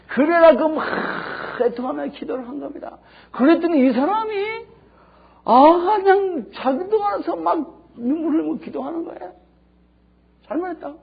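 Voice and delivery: loud, high impassioned preaching; fervent loud preacher's peak; preaching climax. Acted. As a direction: build to a fervent cry. Preacher's climax over repentant tears.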